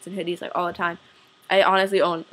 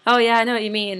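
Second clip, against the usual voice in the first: imitated over-eager agreement, a bit louder; awkward agreeing; 3 semitones higher, 5 dB louder than usual. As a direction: play along to avoid saying the wrong thing. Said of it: "kind of, like, agree or whatever".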